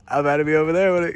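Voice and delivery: owl voice. Retold or imitated. Voicing owls, far timbre.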